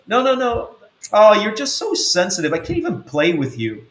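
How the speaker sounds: mocking sister. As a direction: wave off the complaint with scorn. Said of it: "But she goes".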